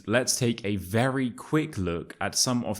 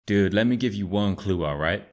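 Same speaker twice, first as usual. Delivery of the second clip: put-on American accent. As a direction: play Chad, an American bro. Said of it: "it's Chad".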